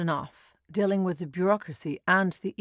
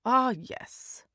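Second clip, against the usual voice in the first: polite; 5 semitones higher than usual. A narrator's reading. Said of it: "with a polite smile".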